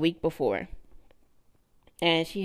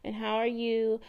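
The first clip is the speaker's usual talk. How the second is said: higher, easy small-talk voice; imitating her breezy check-in; calm and collected; 5 semitones higher, 3 dB quieter than usual. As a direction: keep it light and unbothered. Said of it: "very calm and collected".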